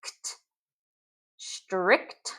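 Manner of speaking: "ct" then "strict", quietly sounded; soft blend demo. Shown as a demonstration. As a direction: sound the ending cluster, then the word. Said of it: "C T, as in".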